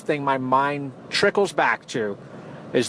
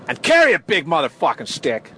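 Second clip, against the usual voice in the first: louder punchline; 2 semitones higher, 3 dB louder than usual. Shown as a demonstration. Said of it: "speak softly".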